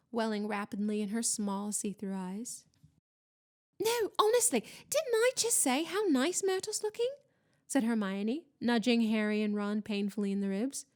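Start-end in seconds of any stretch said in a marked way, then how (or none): 3.8-7.1 high, over-eager insistence; insistent false cheer. A narrator's reading. Student insists to doubting ghost, falsely bright. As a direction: protest innocence in a high, bright voice.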